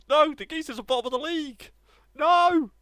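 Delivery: high, loud, fast gloating; gleeful crowing. Real, not acted. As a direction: rub it in, delighted. Rival team bottom of the league.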